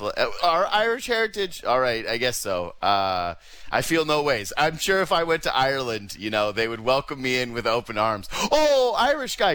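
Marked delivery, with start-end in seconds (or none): 0.4-1.6 higher, mocking gush; teasing mother voice; mock proud mom. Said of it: "text message from her". 8.5-9.5 much higher and louder, excited greeting; hammed-up cheer; mock welcome.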